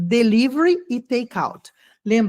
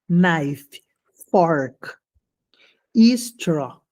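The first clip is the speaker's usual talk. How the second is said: whisper; 5 semitones lower, much slower than usual. Real, not acted. Whispered end of word list.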